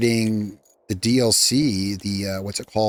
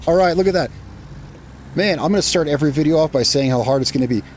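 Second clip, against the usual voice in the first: excited; 4 semitones higher, faster than usual. Real, not acted. Crane success, excited.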